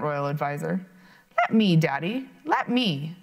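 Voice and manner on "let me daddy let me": put-on eager little girl begging; pleading. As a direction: beg Daddy with childish eagerness. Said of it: "pleaded the princess".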